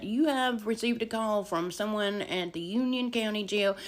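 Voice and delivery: lightly imitated phone recording; mock automated call. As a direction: recite it like an automated jail call notice. Imitating automated jail call message.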